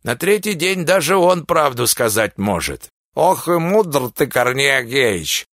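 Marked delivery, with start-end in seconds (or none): 3.1-5.4 пьяно, медленно, заплетаясь; слегка пьяная, смазанная речь; заплетающимся языком. Acted. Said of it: "встрял заплетающимся языком Никифор". (заплетающимся языком)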